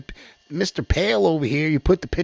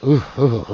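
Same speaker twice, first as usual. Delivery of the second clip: exasperated ooh noises; 2 semitones lower, 3 dB louder, faster than usual. Real, not acted. Commentator apologising for being worked up, exasperated oohs. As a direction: groan out a run of oohs. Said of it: "Sorry, I'm so, like".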